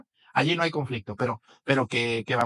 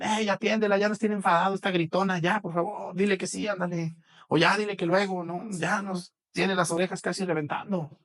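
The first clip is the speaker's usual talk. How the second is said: fed-up apostles; 5 semitones higher than usual. Retold or imitated.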